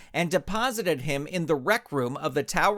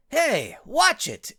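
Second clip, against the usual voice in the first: sharp, high and louder; shouted warning; 10 semitones higher, 4 dB louder, slower than usual. Acted. Robot shouts at the ranch hand to stop. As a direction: snap out a warning to save the TV. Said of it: "L X O shouted".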